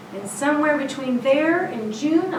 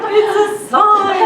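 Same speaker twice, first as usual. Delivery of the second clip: laughing; 10 semitones higher, 11 dB louder, much slower than usual. Real, not acted. Laughing at the coincidence.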